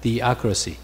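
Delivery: theocracy sounded out slowly; slow model pronunciation. Shown as a demonstration. Teacher has the class read theocracy, slow model pronunciation. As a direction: say THEOCRACY slowly for learners to copy. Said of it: "来，念theocracy".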